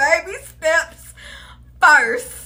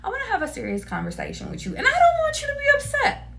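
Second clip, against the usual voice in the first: serious gentle lead-in. Shown as a demonstration. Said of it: "just be like".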